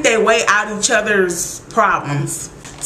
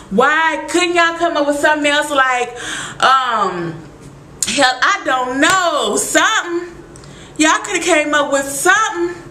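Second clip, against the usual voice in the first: exasperated rant; 5 semitones higher than usual. Retold or imitated. Ranting at the writers' choice.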